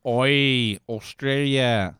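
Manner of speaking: put-on drawn-out Australian accent; mock Australian accent. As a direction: call it out like a cartoon Australian.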